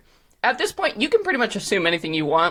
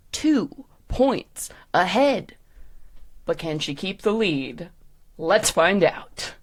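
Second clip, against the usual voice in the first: suspenseful show announcer; slower than usual. Acted. Host asking judges about round three, suspenseful. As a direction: drop to hushed suspense, then lift.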